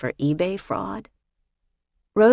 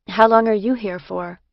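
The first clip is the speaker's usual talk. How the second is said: innocent, higher and louder question; 5 semitones higher, 6 dB louder than usual. A narrator's reading. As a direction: ask it wide-eyed and innocent. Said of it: "I asked innocently".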